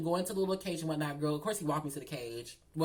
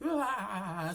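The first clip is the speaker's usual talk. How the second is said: drawn-out fake bawl; mock crying wail; 2 semitones higher than usual. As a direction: imitate a crybaby's "ah". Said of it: "So then she started crying again".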